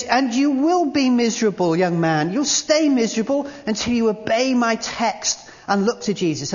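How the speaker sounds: forceful preacher's warning; preacher insisting. Retold or imitated. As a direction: press the point on the young man. Preacher addressing Spurgeon.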